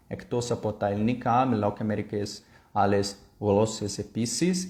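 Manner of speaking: careful beginner's Greek pronunciation; learner's Greek. Shown as a demonstration. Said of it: "além de falar grego".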